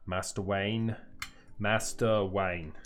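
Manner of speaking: lightly voiced old English butler; a hint of a Cockney butler, drawn out; Michael Caine impression. Shown as a demonstration. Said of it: "My Michael Caine voice was quite good".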